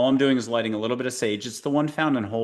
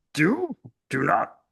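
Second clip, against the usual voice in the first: very slow, creaky, swooping, drawn-out creature voice; 6 semitones higher than usual. Speaker on a recorded show asks the listener not to peek, then does a Yoda voice. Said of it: "I'll do Yoda's voice".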